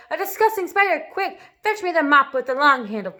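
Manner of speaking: high, loud disgusted order; shrill-free high disgusted command; disgusted cry. Acted. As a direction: scream for the mop in disgust. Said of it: "she cried".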